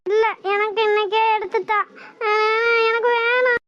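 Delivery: tearful whining demand; sobbing as she begs for the dress; crying child. Acted. Girl cries to mother for a dress today, tearful. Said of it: "இப்படி அழுதுகிட்டு இருக்கா".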